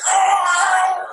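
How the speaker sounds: loud, high angry growl; imitated enraged roar. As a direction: growl out a wordless mock roar. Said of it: "he just growls at the end".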